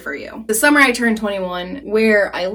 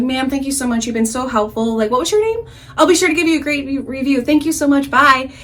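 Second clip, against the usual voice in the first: higher, gushingly polite phone sign-off; customer service voice; 4 semitones higher than usual. Retold or imitated. Drunk caller thanking the bank woman, customer service voice. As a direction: thank them in your best professional phone manner. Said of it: "go back to my best customer service voice".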